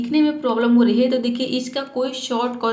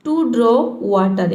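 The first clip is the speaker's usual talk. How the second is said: slow reading; 3 dB louder, much slower than usual. Shown as a demonstration. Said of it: "reads story line slowly".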